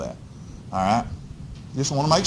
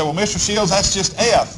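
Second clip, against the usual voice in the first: mock student objection; 4 semitones higher, 3 dB quieter than usual. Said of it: "Now remember, you say".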